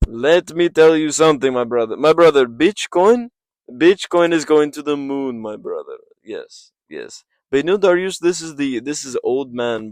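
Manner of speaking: loud hyped fighter calling everyone brother; Renato Moicano impression. Fighter hyping Bitcoin and calling out the old man, loud mock trash talk. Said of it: "Um, Renato Moicano".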